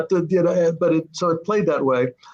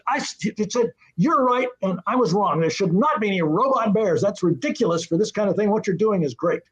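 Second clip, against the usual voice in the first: imitating Stan; 5 semitones higher than usual. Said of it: "He said".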